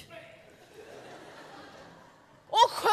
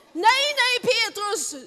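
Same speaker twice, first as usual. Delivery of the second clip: higher, louder urgent protest; alarmed call; 4 semitones higher, 4 dB louder than usual. Acted. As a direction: stop him before he jumps. Disciples hold Peter back.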